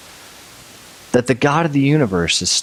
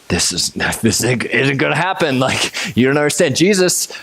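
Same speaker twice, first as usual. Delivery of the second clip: mock panic; 3 semitones higher than usual. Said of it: "they're freaking out".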